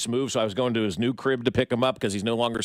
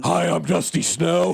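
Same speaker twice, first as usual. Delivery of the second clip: higher, slow put-on stripper greeting; 5 semitones higher, 4 dB louder, slower than usual. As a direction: play the stripper drawn out and pitched up. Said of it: "that's what her voice sounds like".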